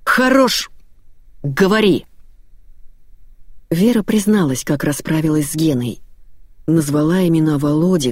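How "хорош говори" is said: harsh command. A narrator's reading. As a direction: snap at her to talk now. Велел.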